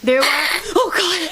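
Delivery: high, slow raccoon voice with a gasp; raccoon impression. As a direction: play a startled raccoon, slowly. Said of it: "That was my raccoon impression".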